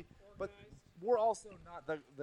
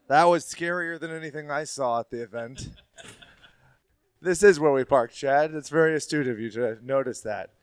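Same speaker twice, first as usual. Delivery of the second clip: echoing stairwell; 5 dB louder than usual. Real, not acted. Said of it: "The acoustics, oh my God".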